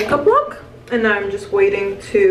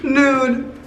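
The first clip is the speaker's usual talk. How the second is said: high, slow, laughing words; 6 semitones higher, slower than usual. Real, not acted. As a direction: speak through laughter. Still laughing over the lipstick.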